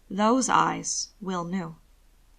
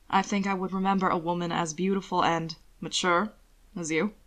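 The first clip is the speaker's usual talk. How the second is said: suggestive charm; 2 semitones lower than usual. Acted. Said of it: "hint of suggestion in his voice".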